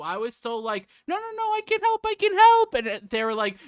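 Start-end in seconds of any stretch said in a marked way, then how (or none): 1.1-2.7 high, loud whiny protest. Retold or imitated. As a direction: whine it out, insisting. Retold insisting to help.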